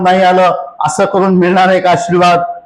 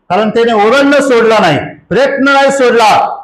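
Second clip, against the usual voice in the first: sermon with a moderately raised pitch; insistent preaching; 4 semitones higher than usual. Real, not acted. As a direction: press the point home to the congregation. (आग्रही, चढ्या स्वरातले प्रवचन)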